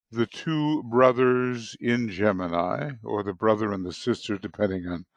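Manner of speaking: hoarse morning voice after a sleepless night; tired, rough just-woke-up voice. Real, not acted. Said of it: "Sorry for my kind of morning voice".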